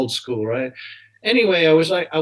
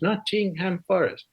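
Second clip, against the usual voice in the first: put-on slow, higher Middle Eastern accent; foreign accent; 5 semitones higher, 3 dB quieter than usual. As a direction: lightly imitate a Jordanian fan's accented English. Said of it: "all he could say was".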